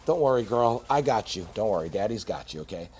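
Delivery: soft, low and reassuring. Real, not acted. Soothing his fish like a child.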